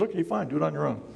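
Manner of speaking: lightly acted "fine, have it your way"; mock giving in. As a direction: toss it off fast, as if giving up. Voicing God giving in to him.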